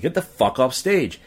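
retold yell. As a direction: re-enact yelling at someone, toned down. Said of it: "I finally yelled at him".

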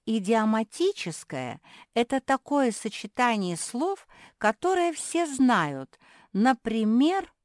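high, loud, slow explanation; older pug sister, instructing. Acted. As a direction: spell it out emphatically for little ones.

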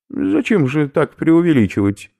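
high, loud lecturing professor; a delighted academic explaining his find; eccentric professor. Acted. Professor lectures captives on snail protein, high eager voice.

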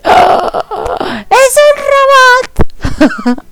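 high, drawn-out crying shriek of shock. Retold or imitated. Retelling her shock at the robot, a high crying shriek. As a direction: shriek it like the discovery breaks your heart.

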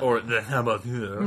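hammed-up, terrible French accent, drawn out; slow, silly put-on French accent. Host jokes about the game's accents, terrible French accent. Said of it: "The land of terrible accents".

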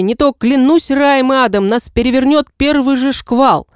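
loud, high captain's threat; commanding shout. Acted. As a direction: shout the warning over the storm. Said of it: "Сильный голос капитана". (громкий властный голос капитана)

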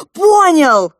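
high, loud excited shout. A narrator's reading. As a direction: yell it with glee. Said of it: "закричал принц".

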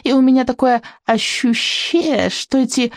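put-on strong but unconvincing French accent; hammy French chef accent, amused. A narrator's reading. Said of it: "с сильным, но неубедительным французским акцентом".

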